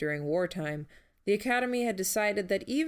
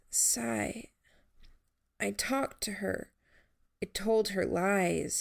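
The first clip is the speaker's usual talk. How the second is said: reedy voice; 3 semitones higher, slower than usual. Acted. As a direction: speak weakly, as if it costs breath. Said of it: "His voice was reedy".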